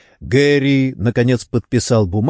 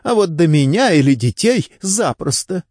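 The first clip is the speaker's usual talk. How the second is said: higher-pitched, mildly indignant retort; snappish; 7 semitones higher than usual. A narrator's reading. Wife fears for herself and children, mildly snapping at detective. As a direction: protest in a raised pitch, a touch snappish. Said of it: "огрызнулась Делайн".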